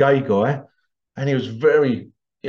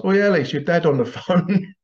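higher teasing call, breaking into laughter; retold shout; 5 semitones higher than usual. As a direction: holler the joke across the class. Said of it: "and someone shout".

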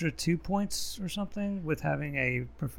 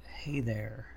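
luring spirit whisper; 3 semitones lower, 3 dB quieter than usual. Pretend. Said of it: "I'm gonna say".

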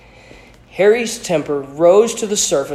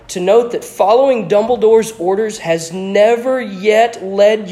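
loud, high, scornful lecturing; scornful portrait lecturing an impertinent boy; lofty tirade; 5 semitones higher, 5 dB louder than usual. A narrator's reading. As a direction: scold him like a contemptuous old headmaster. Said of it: "Okay, here it goes".

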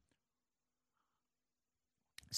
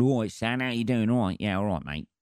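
put-on cockney accent; 4 semitones higher than usual. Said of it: "slam on the fucking Guy Ritchie fucking accent".

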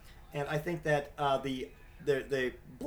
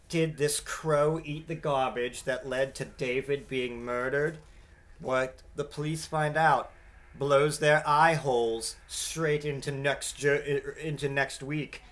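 mock TV promo voice; slower than usual. Reading out a TV show promo.

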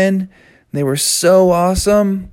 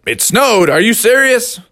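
higher-pitched disbelief; incredulous dad; 7 semitones higher, 3 dB louder than usual. Acted. Dad learns it snowed on roofing day, incredulous. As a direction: question it in dismay. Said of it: "his dad said".

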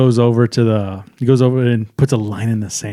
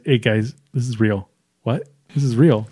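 hushed warning; 4 semitones lower, 6 dB quieter than usual. Acted.

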